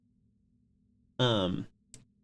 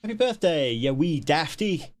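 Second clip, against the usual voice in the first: put-on lightly done Scottish accent; 3 semitones higher than usual. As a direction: read the note in a Scottish accent. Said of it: "my accent's terrible".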